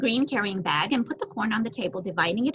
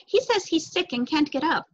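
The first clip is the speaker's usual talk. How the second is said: higher-pitched worried report; worried child, voice raised in pitch; concerned; 6 semitones higher than usual. A narrator's reading.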